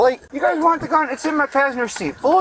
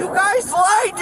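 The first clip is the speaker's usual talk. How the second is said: angry shout; 6 semitones higher than usual. Real, not acted. Suspect protests during arrest.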